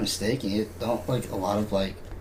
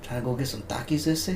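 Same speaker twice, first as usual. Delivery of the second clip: higher-pitched put-on Latino accent; 4 semitones higher, 4 dB quieter than usual. Asking a pal along for Takis, mock Latino accent. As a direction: do a soft-spoken Latino impression.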